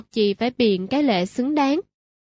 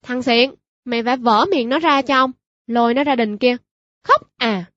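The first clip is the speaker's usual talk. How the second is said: angry order. Acted. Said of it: "quát".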